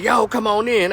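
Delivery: mock-tough come on in; defiant invitation. Wife daring the vampires to enter, high and loud. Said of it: "and she said".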